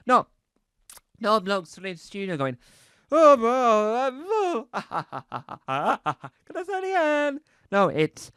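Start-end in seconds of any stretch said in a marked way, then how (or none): 3.1-7.4 higher, laughing blooper voice, fast; pigeon impression. Pigeon actor laughing at his own blooper, higher and fast. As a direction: giggle through it like a pigeon fluffing its line. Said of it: "That's my impression of a pigeon".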